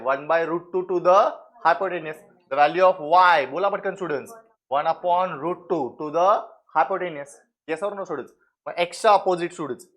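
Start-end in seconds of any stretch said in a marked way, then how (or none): 0.0-2.2 slow dictation. Shown as a demonstration. 4.7-7.4 slow dictation. Shown as a demonstration.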